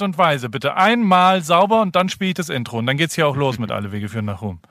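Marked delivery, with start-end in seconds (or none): none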